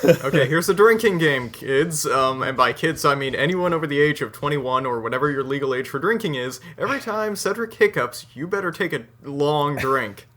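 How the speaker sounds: loud, playful game announcer; playful announcement. Acted. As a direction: announce the game like a party host. Announcing a mock drinking game.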